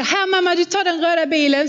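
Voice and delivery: a hint of a child inviting his mother to play; little son's voice. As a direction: chirp it like a toddler at play. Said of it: "och så skulle vi sitta".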